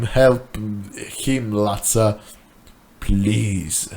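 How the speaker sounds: low, soft begging voice; a hint of a broken man pleading; pleading friend. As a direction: beg him quietly and desperately. Rob begs Latza for help.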